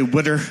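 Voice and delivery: "witter" said the Philly way, for water. Retold or imitated. Preacher shows how Philly fans say "witter". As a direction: Philadelphia "witter", vowel like "wit". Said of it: "they say".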